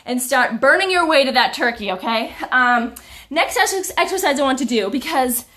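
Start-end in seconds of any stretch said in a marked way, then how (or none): 2.5-5.5 out of breath, puffing; gasping for air. Real, not acted. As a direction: talk while catching breath. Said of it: "I'm sorry that I'm out of breath".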